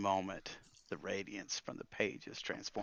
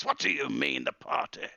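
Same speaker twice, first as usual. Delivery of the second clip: put-on puzzled old wizard, low and loud; taken aback, querying; questioning; 7 semitones lower, 6 dB louder than usual. Wizard querying Calamus about the party, questioning. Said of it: "with a questioning look".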